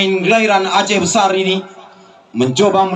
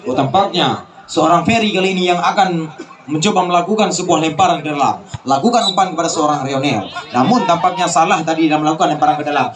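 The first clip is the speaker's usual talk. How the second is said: laughing; 5 semitones lower than usual. Real, not acted. Laughs at wrong throw-in.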